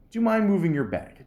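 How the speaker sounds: a nice way to ask for the seat; polite request. Shown as a demonstration. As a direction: ask nicely, friendly. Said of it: "Just say it in a nice way".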